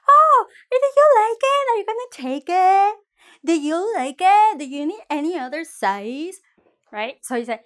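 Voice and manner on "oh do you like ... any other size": high, bright eager shop assistant voice; eager seller. Acted. Seller fussing over a customer, eager high voice. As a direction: play the pushy seller, pitched way up. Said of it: "the seller is going to say".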